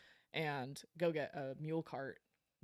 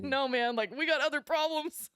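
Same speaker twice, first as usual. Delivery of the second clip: laughing retort; 10 semitones higher, 9 dB louder than usual. Retold or imitated. Answering rancher's blood question.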